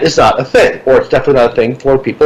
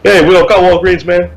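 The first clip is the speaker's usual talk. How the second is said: put-on higher, lazy Puerto Rican kid accent; 4 semitones higher than usual. Kid on a bike answering the lost tourist, Puerto Rican accent. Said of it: "Because it's a Puerto Rican accent".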